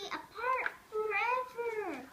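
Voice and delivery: hammed-up sobbing farewell; mock tragic. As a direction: wail it like melodrama. Tragic parting from friend.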